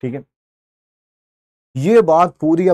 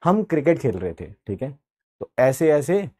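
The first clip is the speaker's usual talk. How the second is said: put-on innocent child excuse; 5 semitones lower, 5 dB quieter than usual. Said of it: "अब विनय अपने पापा को क्या बोल रहा है".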